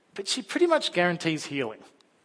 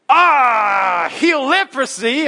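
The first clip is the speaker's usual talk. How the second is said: much higher, louder panicked yell; panicked shout; 10 semitones higher, 10 dB louder, much slower than usual. Retold or imitated. The king of Israel panicking at the impossible request, a loud yell. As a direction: blurt it in total panic. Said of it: "the king of Israel is like".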